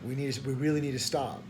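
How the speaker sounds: tripping over the first words; stuttering. Real, not acted. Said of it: "I'm stuttering".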